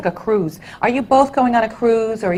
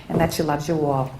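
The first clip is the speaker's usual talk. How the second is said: normal talking voice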